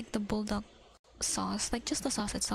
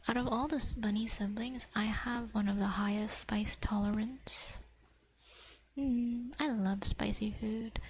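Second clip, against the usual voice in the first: ASMR whisper. Acted. Whispering to viewers about fish cake. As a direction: whisper it close to the mic.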